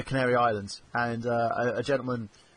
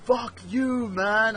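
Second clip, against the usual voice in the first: higher mock fuck you; mock insult; 8 semitones higher, much slower than usual. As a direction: toss off a lightly imitated curse. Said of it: "had someone do that to me".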